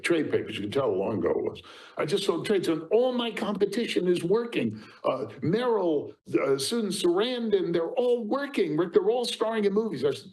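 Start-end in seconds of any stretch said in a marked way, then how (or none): 2.0-10.0 fretful actress. Retold or imitated. Actress voiced complaining to agent.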